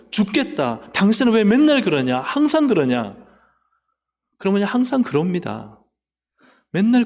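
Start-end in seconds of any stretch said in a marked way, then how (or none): 0.1-3.1 mock irritated nag. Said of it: "불평하고 원망하고 짜증내고".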